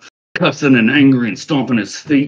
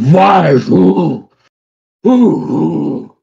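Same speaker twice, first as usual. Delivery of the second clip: high, loud single-word outbursts; agitated yelling; 6 semitones higher, 6 dB louder, much slower than usual. Acted. Carnival owner confronting five strangers, agitated high yelling. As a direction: fire off each question as an upset shriek. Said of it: "as he's kinda yelling at you".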